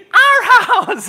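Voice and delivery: high chant dissolving into a laugh; mock girls' scream. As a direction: scream it while laughing at how unscary it is. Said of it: "girls screaming".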